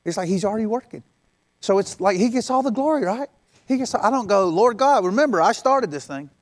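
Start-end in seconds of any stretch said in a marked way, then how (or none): 4.5-6.3 smug boast. Retold or imitated. Mock boastful prayer to God.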